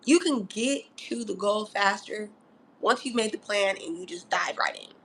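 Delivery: soft unvoiced whisper; whispered advice. Real, not acted. Telling Mars in Virgo to trust themselves, whispering. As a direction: lean in and whisper it.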